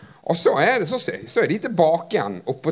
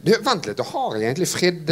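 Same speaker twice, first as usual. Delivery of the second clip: ordinary talk, nothing marked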